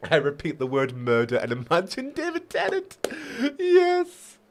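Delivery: Brit trying out a Scottish accent; Scottish accent attempt. Shown as a demonstration. Reader warming up for a character, attempted Scottish accent. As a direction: put on an uncertain Scottish accent. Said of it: "the Brit trying to be Scottish".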